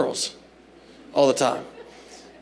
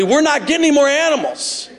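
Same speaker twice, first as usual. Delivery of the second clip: mock proclamation; 10 semitones higher than usual. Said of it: "a proclamation to the family".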